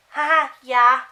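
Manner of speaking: mock her as a clueless fangirl; ditzy giggle. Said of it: "And she goes".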